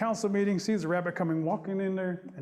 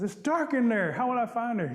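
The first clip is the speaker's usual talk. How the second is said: higher, fretful questioning; whiny worry; 5 semitones higher, 3 dB louder than usual. Acted. Possum unsure about the dark building, whining. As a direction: complain as you ask, pitched up.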